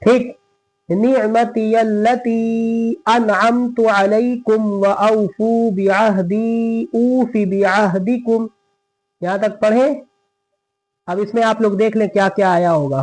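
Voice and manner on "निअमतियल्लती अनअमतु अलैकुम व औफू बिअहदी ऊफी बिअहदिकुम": slow, drawn-out melodic recitation; Quran recitation. Shown as a demonstration. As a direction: chant each word slowly and evenly. Recites verses slowly to students.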